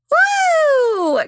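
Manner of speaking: high, loud celebratory woo; shrill party cheer; excited whoop. Real, not acted. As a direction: let out a big happy whoop. Hype cry before sign-off.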